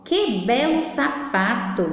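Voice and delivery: slow, drawn-out admiring exclamation; exclaimed admiration. Shown as a demonstration. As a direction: admire it slowly, word by word. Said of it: "É uma frase de admiração".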